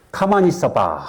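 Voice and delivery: mock Chungcheong slowness; unhurried Chungcheong father. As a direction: imitate an easygoing father stalling. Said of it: "충청도 사람이 약간 느려요".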